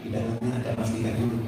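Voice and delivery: very soft, low, quick murmur; acted whisper in the ear. Preacher whispering to the friend he just hit, hushed. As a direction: keep it secret, barely voiced. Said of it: "Tapi saya bisikin".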